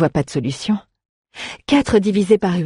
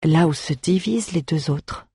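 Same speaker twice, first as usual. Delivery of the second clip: pensive. Acted. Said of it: "répéta Aléa pensivement".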